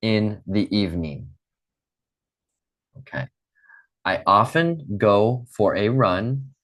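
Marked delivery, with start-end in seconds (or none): 4.0-6.5 slow model phrase. Shown as a demonstration. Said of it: "repeat after me".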